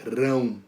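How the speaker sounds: Rão said by itself, drawn out; Rão as one firm syllable; stressed syllable alone. Shown as a demonstration. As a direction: isolate Rão as the answer. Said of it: "Qual é a sílaba tônica?".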